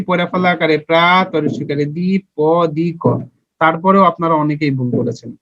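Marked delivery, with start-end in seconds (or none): 0.1-3.0 spelling the word out again for a class that got it wrong. Shown as a demonstration. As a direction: spell প্রাতিপদিক piece by piece as প্রা, দি, প, দি, ক, each said separately. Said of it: "দেখেন কিভাবে লিখেছি".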